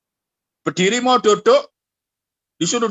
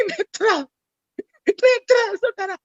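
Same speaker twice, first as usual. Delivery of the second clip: laughing; 13 semitones higher, slower than usual. Real, not acted. Laughing mockery of prayer.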